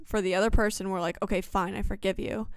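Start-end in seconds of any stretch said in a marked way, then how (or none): 1.2-2.5 quiet, grudging "fine, I forgive you"; reluctant forgiveness. Retold or imitated. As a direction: give in unwillingly, under your breath. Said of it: "because we don't want to".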